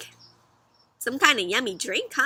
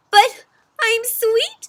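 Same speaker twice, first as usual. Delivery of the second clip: much higher, slow whimper; whimpering cookie; 11 semitones higher, 7 dB louder, much slower than usual. Acted. Cookie insisting he is sweet. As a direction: plead it near tears. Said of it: "says Cookie".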